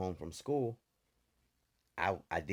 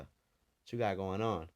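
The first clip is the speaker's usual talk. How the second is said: imitating stern parents; slower than usual. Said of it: "But not like a concern".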